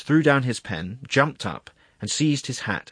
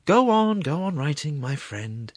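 soothing murmur; 7 semitones higher, 3 dB louder, slower than usual. A narrator's reading. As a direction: placate him, tailing into a murmur. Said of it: "murmured the secretary".

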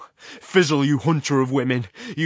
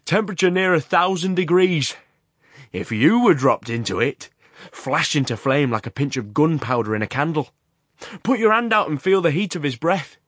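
raised, high shouting voice over the blast; loud over the roar; 5 semitones higher, 9 dB louder than usual. A narrator's reading. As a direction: shout it to be heard over the furnace. Horrocks shouting over the furnace.

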